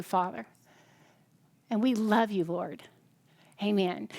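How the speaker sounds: prayer that fades to a hush on the amen. Acted. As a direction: pray it gently over the room. Closing prayer over the group.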